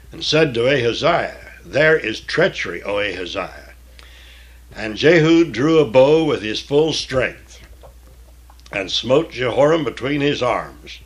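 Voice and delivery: measured, solemn Bible reading; scripture reading. Acted. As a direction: read the King James text with weight.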